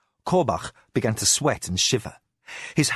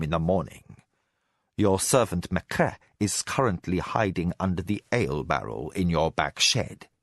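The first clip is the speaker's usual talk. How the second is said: Arakasi's cold threat; 4 semitones lower than usual. Acted. Spy master threatening the bound alchemist, low and cold.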